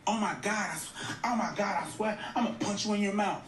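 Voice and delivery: put-on high, fast, giggly girl-talk threat; mocking a girl friend. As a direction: squeal it like a friend joking about punching you. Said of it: "girls do the same shit".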